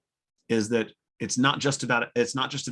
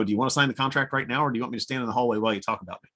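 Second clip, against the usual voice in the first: deadpan; faster than usual. Retold or imitated. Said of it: "Say that with a straight face".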